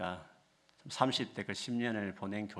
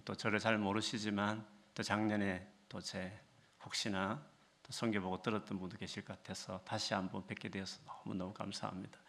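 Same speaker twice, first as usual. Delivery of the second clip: ordinary talk, nothing marked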